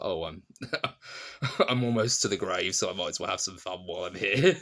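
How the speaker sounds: chuckling through an imagined thought; lightly acted, laugh breaking into the words; amused older Bilbo. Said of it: "he kind of feels like".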